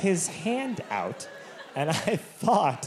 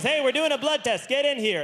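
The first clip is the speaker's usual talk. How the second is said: mild mock yell; 7 semitones higher than usual. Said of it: "he yells out into the hall".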